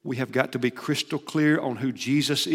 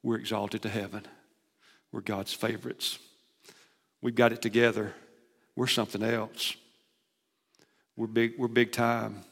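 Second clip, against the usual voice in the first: smug self-praise; 3 semitones lower, 5 dB quieter than usual. Retold or imitated. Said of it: "that was their opinion of themselves".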